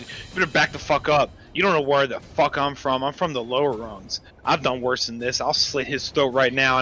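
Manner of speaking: low-key, dropping menace; controlled hostage-taker warning; menacing threat. Acted. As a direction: threaten quietly, letting the voice sink. Player threatens while holding a hostage.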